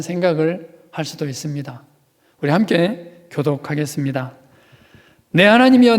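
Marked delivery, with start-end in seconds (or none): 5.3-6.0 higher, louder anguished call; mock cry to God. Pastor opening Psalm 22 for the congregation, crying out.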